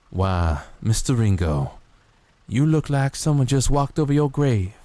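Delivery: lightly voiced Southern gunslinger, lazy and amused; a hint of a dying gambler teasing his rival; Doc Holliday impression. Quoting Tombstone to chat, light Doc Holliday voice. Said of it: "I like to riff off of Doc Holliday from Tombstone".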